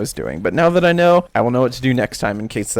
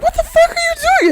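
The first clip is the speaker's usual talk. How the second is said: very high, loud imitated yell; mother screaming; 6 dB louder, faster than usual. Mother bursts into the kitchen, screaming at her son. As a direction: shriek at him like an angry mom. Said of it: "And she's screaming".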